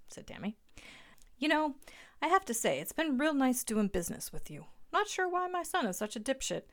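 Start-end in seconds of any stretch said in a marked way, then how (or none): 1.4-6.6 put-on higher, louder old crook voice; sly dad pleased with the scam; crooked father. A narrator's reading. Earl congratulates Tammy on the scam, smug.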